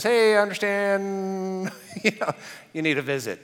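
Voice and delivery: gentle reassurance. Retold or imitated. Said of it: "Jesus visits Thomas and says".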